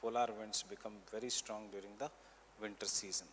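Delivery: measured note-giving, repeating phrases for writers; teacher dictating notes for students to copy; classroom dictation. Real, not acted. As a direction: dictate in short chunks with long pauses.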